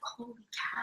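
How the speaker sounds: breathy, very soft laugh through the words; hushed laughing holy cow. Retold or imitated. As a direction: barely get it out for laughing, hushed. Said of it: "I was like".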